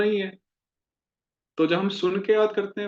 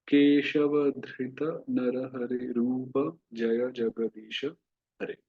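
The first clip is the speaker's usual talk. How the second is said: very slow chant-like prayer recitation; slow Sanskrit recitation; much slower than usual. Shown as a demonstration. Teacher leading students in Narasimha prayer: slow recitation. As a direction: recite each line slowly for the class to repeat. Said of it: "इसका उच्चारण मैं कर देता".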